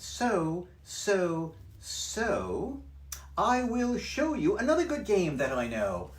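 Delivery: high, bouncy cheeky cat; cat's voice. Acted. Cat in the hat teasing the fish, high and loud. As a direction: brush off the fish, playful. Cat announces new game.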